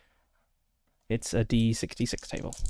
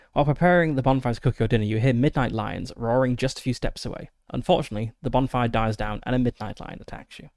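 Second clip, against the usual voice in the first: story narration. Acted. Reads the encounter card aloud.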